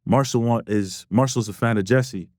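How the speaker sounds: lightly imitated English accent. Retelling a label man's text about a fan, English accent. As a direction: put on a mild English accent. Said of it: "doing his, like, English accent".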